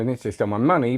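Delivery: MONEY stressed and falling at the end. Shown as a demonstration. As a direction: land on money, not someone. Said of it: "they stole someone else".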